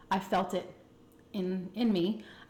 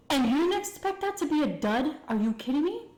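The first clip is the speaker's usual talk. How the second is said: higher-pitched, exasperated disbelief; retold scolding; 7 semitones higher, 3 dB louder than usual. Girl scolding boyfriend over the cheap condom, retold exasperation. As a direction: tell them off with rising, incredulous questions.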